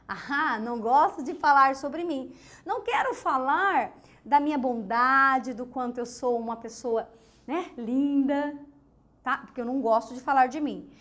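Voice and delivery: mock-modest bragging, savouring the compliment to herself; self-praising boast. Shown as a demonstration. To the class, a braggart pretending modesty, lightly hammed. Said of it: "eu disse que eu não gosto de falar sobre mim, mas eu já estou falando".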